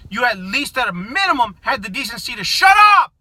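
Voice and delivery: builds to a furious shout on shut up; angry shout. Real, not acted. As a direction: spit out the last words in real anger. Angry rant, rising to shout.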